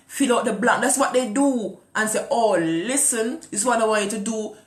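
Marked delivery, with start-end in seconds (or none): 2.3-4.5 a touch of a bossy pastor; mock pastor instructing. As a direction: imitate a pastor laying down orders, hint of a put-on. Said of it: "This is how they talk".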